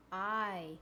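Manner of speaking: "I." as the letter name, long vowel; long I sound. Shown as a demonstration. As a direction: give "I." the long sound of ice. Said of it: "The long sound?".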